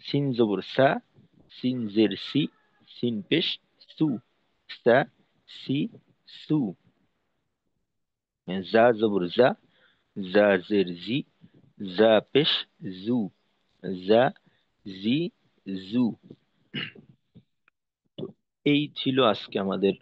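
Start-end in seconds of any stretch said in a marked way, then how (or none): 0.0-6.6 measured recital of "সা, সি, সু", each syllable set apart; sin pronunciation drill. Shown as a demonstration. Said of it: "সিন এবং জায়ের উচ্চারণের". 8.7-16.0 measured recital of "জা, জি, জু", each syllable set apart; za pronunciation drill. Shown as a demonstration. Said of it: "সিন এবং জায়ের উচ্চারণের".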